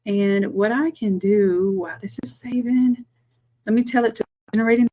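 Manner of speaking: quick whisper under her breath; whispered aside. Real, not acted. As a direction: drop to a whisper as a side note. Aside while file saves.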